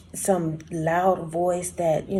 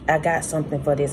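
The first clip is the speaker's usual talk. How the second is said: knowing confidence; 3 semitones lower, faster than usual. Retold or imitated. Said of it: "almost like".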